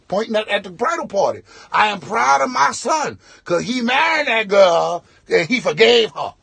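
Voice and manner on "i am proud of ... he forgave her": shouting the toast into the mic; loud drunk guest announcing it to the room; mock drunk proclamation, shouted. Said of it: "Flavor Flav looking dude".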